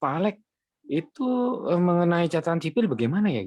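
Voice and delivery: high, astonished question; retelling the staff's amazed question; surprised asking. Retold or imitated. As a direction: ask it in amazement, pitched well up. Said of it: "mereka semua kaget".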